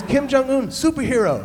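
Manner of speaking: put-on high, loud, eager child insisting; excited kid. Cambodian boy insisting to the pastor, high and loud. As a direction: push the name like a proud discovery.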